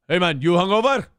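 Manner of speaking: loud, friendly teasing question; jovial boss. Retold or imitated. Owner ribbing a male server on Saturday morning, jovial. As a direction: rib a buddy heartily, imitating the boss. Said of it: "it'd be jovial".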